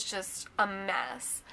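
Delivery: slow, drawn-out unvoiced whisper. Real, not acted. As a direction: let it out in a defeated whisper. Recalling panic over losing job.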